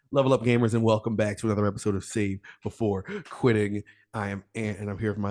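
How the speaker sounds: podcast host welcome; show intro. Acted. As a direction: kick off the episode with energy.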